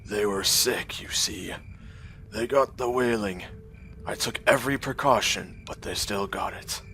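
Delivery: grieving ruined man. Acted. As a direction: let the words fall away, hollow with loss. Despondent man voiced.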